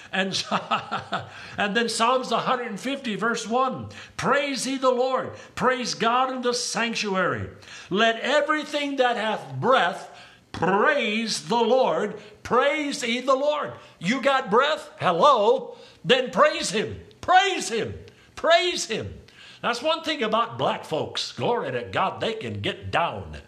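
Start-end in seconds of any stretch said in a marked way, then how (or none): 0.6-1.5 brief chuckle to himself. Real, not acted. Preacher chuckles before reading a Psalm, short laugh. 1.6-19.1 raised, ringing exhortation to praise; fervent preaching. Real, not acted. Preacher urging the church to praise him, fervent preaching.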